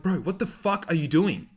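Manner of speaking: high, loud call-out, imitating Josh; mocking bro yell. Josh calling out his friend at dinner, loud high yell. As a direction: bark it across the table like a mate. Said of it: "And Josh is like".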